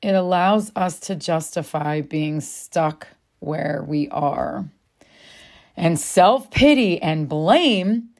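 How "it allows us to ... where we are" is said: repeated slowly and lower. Shown as a demonstration. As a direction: say it again, slowly, so it sinks in. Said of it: "Let that land a second".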